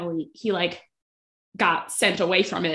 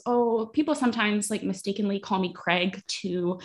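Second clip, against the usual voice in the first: nervous. Retold or imitated. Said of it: "Greg kind of nervously goes".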